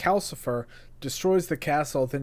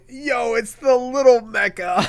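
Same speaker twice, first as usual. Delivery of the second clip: excited; 8 semitones higher, 7 dB louder than usual. Retold or imitated. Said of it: "even my friend was like".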